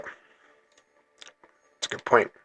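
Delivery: breathy whispered concession; whispered aside. Real, not acted. Gamer murmuring to himself after a teammate's argument, whispered. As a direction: concede it under your breath, slowly.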